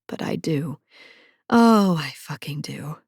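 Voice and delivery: hushed, breathy admission; whispered confession. A narrator's reading. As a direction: whisper it like a secret. Confessing guilty desire.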